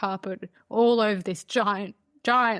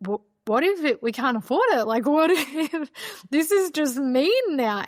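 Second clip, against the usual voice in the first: panicked half-laughing fear; worrying they can't afford it, tearful; 6 semitones higher, 4 dB louder than usual. Retold or imitated. Panicking about affording the house.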